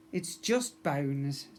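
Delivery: slow flat dad. Acted. Dad finishes sentence.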